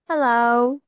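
loud calling hello; to someone hard of hearing. Real, not acted. Child too quiet, teacher calls.

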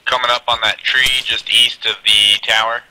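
loud callout over gunfire; shouting orders over battle. Real, not acted. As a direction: shout the position to the squad.

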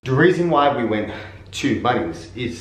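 winded from the stairs; breathless after walking upstairs; out of breath. Real, not acted. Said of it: "I'm out of breath from walking upstairs".

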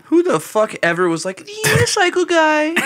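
high-pitched laughing jab; laughing disbelief. Real, not acted. Mocking question, laughing.

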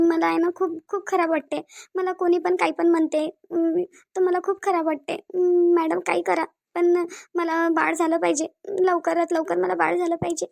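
tearful pleading. Acted. Childless wife begging the doctor for help, tearful pleading. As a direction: plead as if holding back tears. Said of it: "तू रडू नकोस".

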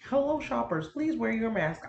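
a hint of a shop announcer; store announcer. Mocking the Walmart announcement she hears at home, announcer voice. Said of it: "When Walmart's like".

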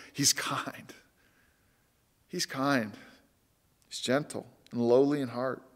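hushed whisper of wonder; whispered awe. Real, not acted. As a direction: breathe it out like a secret. Preacher marvels at God's kindness.

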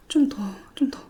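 unvoiced murmur to herself; whisper. Real, not acted. Combing hair, whispering to herself. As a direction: whisper it under your breath.

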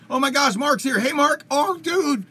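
high, loud mock Minnesota accent. Host spots his friend Mark joining, excited Minnesota accent. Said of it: "How is my Minnesota accent?".

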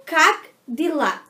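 как дела repeated slowly, each word set apart. Shown as a demonstration. (как дела repetido devagar e bem separado)

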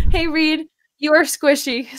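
ordinary delivery

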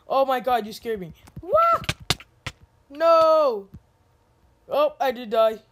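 jump-scared yelp, then laugh it off; scream into giggles. Real, not acted. Startled scream while playing.

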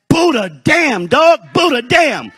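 loud, hammed-up angry swearing; mock angry cursing. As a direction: curse like someone who just lost their temper. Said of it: "lose their temper".

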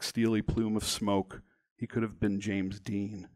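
measured, dramatic memoir reading; deliberate narration with weight on key words; story narration. A narrator's reading. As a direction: read your story aloud, phrase by phrase. Reads own story aloud.

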